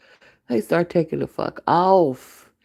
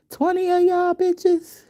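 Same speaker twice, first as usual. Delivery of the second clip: high, slow, stretched-out squeal of disbelief; outraged disbelief; slower than usual. Retold or imitated. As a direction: shriek it in shocked outrage.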